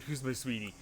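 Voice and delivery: soft cooing to a pet. Real, not acted. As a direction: coo it softly to the bird. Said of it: "I love my bird".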